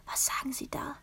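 put-on voiceless, breathless child's whisper; breathed whisper. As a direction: breathe it to her brother in fear. (gehaucht, tonlos)

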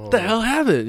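높게 치솟는 어리둥절한 외침; 깜짝 놀라 당황한 목소리; confused surprise. Retold or imitated. Waking up confused after blackout.

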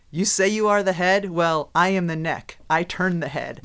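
measured, emphatic put-down, lightly acted; retold firm comeback. Wife answering husband's claim to be boss, firm. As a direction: lay it down as the wife who really decides.

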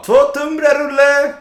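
loud, high shout from kitchen; calling out order. Retold or imitated. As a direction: call the order out across counter. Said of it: "han bara".

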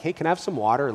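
put-on a child asking nicely; mild imitation of a polite child asking for water; polite request. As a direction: ask sweetly, like a polite little boy. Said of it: "the difference when he's like".

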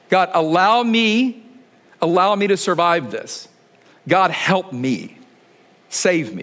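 a slow, hushed plea to God; earnest slow prayer. Pretend. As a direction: pray it out slowly and humbly. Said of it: "if I could say it a different way".

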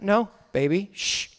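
soft refusal trailing into a shush. Retold or imitated. Dad waving off his wife's plea, shushing. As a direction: hush your partner quietly. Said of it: "you can shush your wife".

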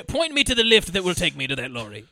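politely hammed-up British request; silly British voice; mock British accent. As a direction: ask like a proper Brit. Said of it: "I'm British".

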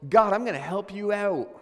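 loud, bright offer to help; eager announcement. Retold or imitated. Abraham telling God he will fix things, loud and eager. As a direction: step in boldly to fix things. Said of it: "So Abraham goes".

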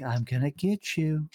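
psycho voice. Retold or imitated. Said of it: "I used to do a psycho voice".

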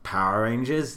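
retold unison reply. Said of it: "we just went".

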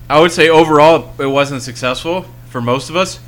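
crying with a runny nose from the spicy noodles; teary, sniffly voice, nose running; snotty crying. Real, not acted. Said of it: "Oh, he's crying".

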